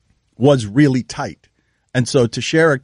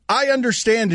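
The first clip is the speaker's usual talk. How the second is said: imitating; 7 semitones higher than usual. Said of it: "is your transition".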